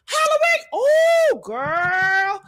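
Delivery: excited exclaim. Real, not acted. Host recalling Wendy fainting onstage, high excited exclaim. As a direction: shout it out remembering.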